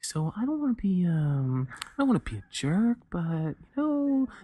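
put-on gossipy shit-talking voice. Describing the voice people slip into before badmouthing someone, imitating a shit-talking voice. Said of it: "That's the that's the shit talking voice".

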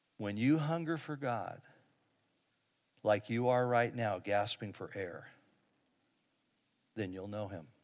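very quiet, soft, low, hushed voice. Telling a story where an old man speaks to a gasping man, very quietly. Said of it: "the old man very quietly says".

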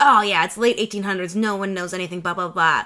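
normal talking voice

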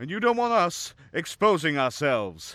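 booming, forceful, very loud and emphatic. A man speaks up in court before a judge; emphatic. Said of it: "emphatically stated Peter".

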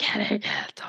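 soft urgent whisper.

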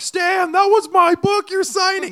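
very high calling out. Retelling a book signing, calling to the signer from the crowd: retelling a yell from the crowd. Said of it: "I'm like yelling from the crowd".

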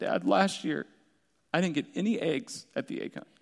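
put-on sobbing, tearful, crying little boy's voice. Retelling a son's tearful complaint about the egg hunt: imitating Maddox crying. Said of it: "with tears streaming down his face".

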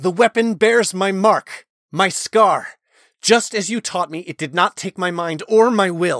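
high, held-in near shout through clenched teeth. Reading a character showing a blade to the commander, through clenched teeth, nearly shouting. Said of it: "exclaimed through clenched teeth, nearly shouting".

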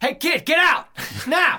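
very loud, high-pitched, barked yell. Describing a scene where he breaks a window to save the kid, imitating Tom Atkins yelling. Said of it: "he's just yelling at him".

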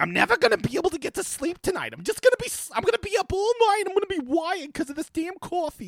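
very high, put-on elderly lady voice. Complaining about drinking too much coffee, in an old Jewish lady voice. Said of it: "Sorry, old Jewish lady".

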